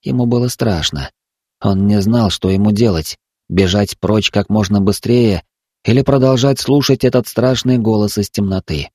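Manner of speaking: ordinary delivery, nothing marked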